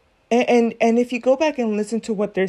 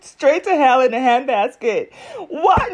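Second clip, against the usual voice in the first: laughing; 3 semitones higher, 4 dB louder than usual. Real, not acted. Cracking up at video.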